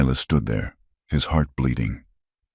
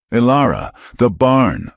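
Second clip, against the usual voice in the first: urgent call; 7 semitones higher than usual. A narrator's reading. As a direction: wake her, the barn burns. Silas waking her to fire.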